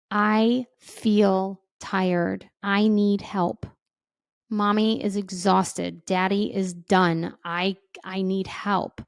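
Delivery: honest tired admission. Shown as a demonstration. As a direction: say it plainly and wearily to your kids. Parent telling kids they're exhausted.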